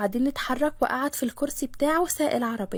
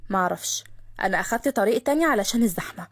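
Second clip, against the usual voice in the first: lower, offhand dismissal; calm Khaled; 3 semitones lower than usual. Acted. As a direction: brush her off calmly. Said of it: "قال خالد بهدوء". (خالد بهدوء وصوت أوطى)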